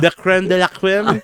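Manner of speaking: put-on French accent. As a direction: say it the posh French way. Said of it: "I hated myself saying that".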